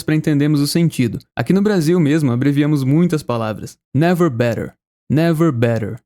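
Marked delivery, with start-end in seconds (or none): 3.9-6.0 Never better, with the tt of better said as a quick flapped r; American pronunciation. Shown as a demonstration. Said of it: "O correto seria never been better". (better com som de R rápido)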